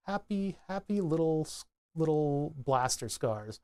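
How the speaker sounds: gentle painter's murmur, lightly imitated; Bob Ross. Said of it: "people like Bob Ross".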